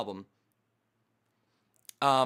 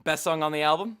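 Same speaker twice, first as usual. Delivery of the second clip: laughing; 8 semitones higher, 14 dB louder than usual. Real, not acted. Jokey announcer question, laughing.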